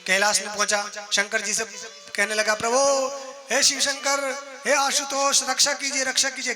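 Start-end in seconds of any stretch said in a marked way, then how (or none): 2.5-6.5 high-pitched repeated plea for protection; urgent supplication. Acted. Jayant at Kailash begging Shankar, urgent supplication. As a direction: call on the god in a raised, beseeching voice.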